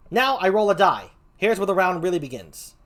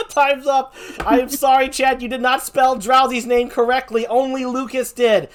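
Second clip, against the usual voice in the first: excited announcement; 6 semitones higher, 5 dB louder than usual. Real, not acted. Host announces chat failed.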